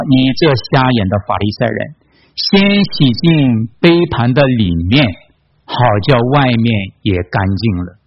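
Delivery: slow, deliberate verse reading; scripture reading. A narrator's reading. Preacher reading Jesus' rebuke of Pharisees, slow scripture reading. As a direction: read the verse out slowly, phrase by phrase. Reads a Bible verse aloud.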